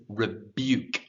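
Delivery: "Rebuke" with a y-glide before the u; careful pronunciation. Shown as a demonstration. Teacher models an interesting English sound, careful pronunciation. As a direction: say "Rebuke" clearly as re-byook. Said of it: "this is an interesting sound".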